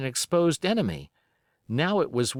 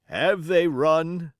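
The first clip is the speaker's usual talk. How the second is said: wounded captain; 4 semitones higher, 4 dB louder, much slower than usual. A narrator's reading.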